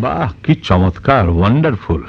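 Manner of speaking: slow, drawn-out mock admiration; sarcastic praise. Husband on hearing daughters-in-law went out, sarcastic. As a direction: stretch the praise out with bitter irony.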